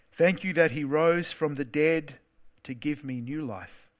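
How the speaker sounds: soft, slow prayer with long pauses between lines; slow led prayer. Acted. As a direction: lead the congregation quietly phrase by phrase. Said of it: "I'm gonna say it slowly".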